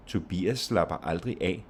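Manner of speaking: "Tobias", "aldrig" and "af" stressed. Shown as a demonstration. Teacher adding an adverb, stress on "aldrig" too. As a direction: add weight on "aldrig" between "Tobias" and "af". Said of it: "only with stress on aldrig".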